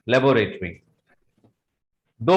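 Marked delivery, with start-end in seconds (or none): 0.1-0.7 laboratory said as "lay-bo-rate-ree"; wrong pronunciation. Shown as a demonstration. Teacher rejecting the common form, mispronounced. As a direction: put a long "rate" into laboratory. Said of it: "This is not".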